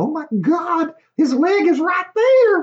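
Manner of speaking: put-on really strong, very high, loud, thick country accent. Retelling what Sarah said sitting beside the speaker, imitating Sarah's really country accent. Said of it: "really, really country accent".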